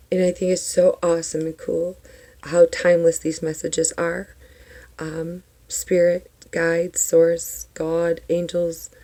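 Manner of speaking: groggy just-woke-up morning voice; rough morning voice before water. Real, not acted. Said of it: "you guys got my major morning voice".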